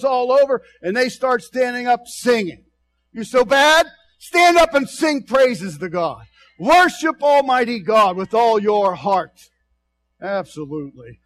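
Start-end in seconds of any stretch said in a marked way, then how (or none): 3.1-9.5 loud, preachy call to stand and sing; rally the men to their feet; retold shout. Preacher voicing the prisoners' shout, loud and fervent.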